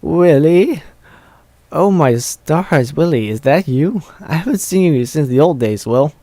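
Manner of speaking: lightly voiced old granny, slow in places; old squeaky voice. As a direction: attempt a squeaky elderly pony, half-managed. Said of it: "in her old squeaky voice".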